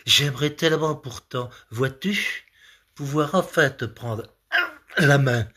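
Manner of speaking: lightly declaimed verse with long pauses; mock love poem. Comedian interpreting a man's love poem, mock-earnest recital.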